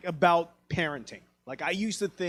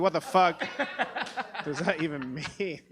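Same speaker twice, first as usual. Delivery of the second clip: laughing disbelief. Retold or imitated. Incredulous son, laughing.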